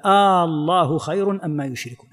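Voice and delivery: "آه الله" with the opening alif held long as a question. Shown as a demonstration. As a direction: draw out the first vowel of "الله" to ask. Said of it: "هذا استفهام". (مدّ همزة «آلله» للاستفهام)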